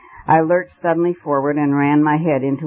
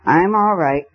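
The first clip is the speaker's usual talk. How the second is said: put-on high silly drunk cooing; drunken babble; 6 semitones higher than usual. A narrator's reading. Vicar playing drunk woman for the constable, silly cooing. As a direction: coo it like a tipsy old woman. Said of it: "to his internal shame".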